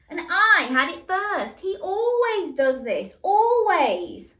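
high, loud, whining complaint; exasperated protest. Acted. Michael complains to Mum, high exasperated whine. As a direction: plead with exasperation. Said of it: "Michael replied with exasperation".

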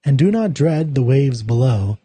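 slow, measured poetry recital; poem reading. Acted. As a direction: read each line slowly with weight and pauses. Reads the poem aloud.

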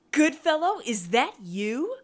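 high, loud squeal of recognition. A narrator's reading. Serenity recognising Goodfellow in the street, squealing. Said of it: "peered closer and squealed".

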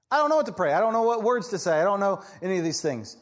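mock whiny, high complaint; whiny excuse. Believer whining that he cannot pray, in a mock whiny voice. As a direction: whine it like a helpless believer. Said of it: "This is a great excuse".

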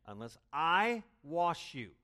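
Jesus's claim, slow and emphatic; solemn emphatic. Retold or imitated. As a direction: weigh each word. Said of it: "Jesus is saying".

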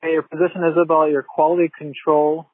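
bad phone line. Real, not acted. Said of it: "We did speak by phone".

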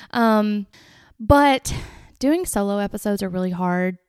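ordinary talk, nothing marked

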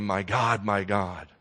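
soft, tender lament. Shown as a demonstration. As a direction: say it gently, like to a close friend. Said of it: "It's a tenderness".

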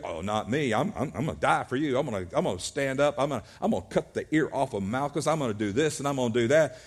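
lightly acted, hurried run of vows; quick, tumbling pledges; eager promises. Acts Peter's hasty boasting promises.

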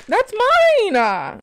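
high, loud protest. Real, not acted. Toddler grabbing her things.

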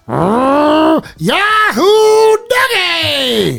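imitating a TV pitchman. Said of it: "he goes".

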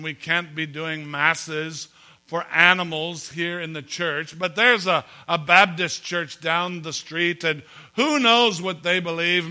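slow, put-on Irish accent; emphatic Irish-accented priest in a joke. Irish priest turning down a mass for a dog, Irish accent. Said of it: "This is my Irish accent".

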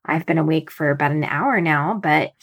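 hoarse, just-woke-up voice; slightly rough early morning voice; raspy morning voice. Real, not acted. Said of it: "so sorry if I sound a little raspy this morning".

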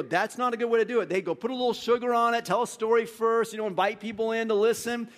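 high, loud mock professor giving gentle advice; prim seminary voice. Preacher mimicking seminary professors correcting John, prim advice. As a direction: sweeten the advice like a tutor. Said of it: "in seminary, they go".

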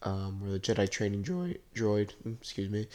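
blocked nose from allergies; stuffy nose. Real, not acted. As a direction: talk through a stuffy nose. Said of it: "Sorry if I sound a little stuffy and keep sniffling".

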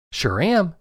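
put-on lost boy answering the farmer, casual; boy's voice. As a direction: answer cheerfully like a kid.

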